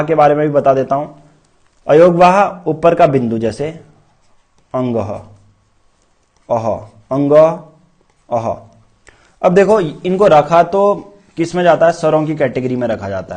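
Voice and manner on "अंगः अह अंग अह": अंगः and अह sounded out slowly in separate pieces; pronunciation demo. Shown as a demonstration. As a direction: sound out अंग, then अह with a breathy "h" ending. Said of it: "अगर इसका उच्चारण करोगे तो व्यंजनों का जैसा उच्चारण आएगा".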